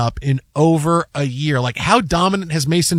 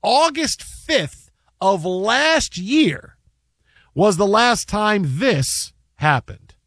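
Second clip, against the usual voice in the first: slow, deliberate broadcast lead-in; slow dramatic sports intro; sports announcer build-up; 2 semitones higher, slower than usual. Real, not acted. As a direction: stretch it out to set up the highlight. Builds up to game highlight.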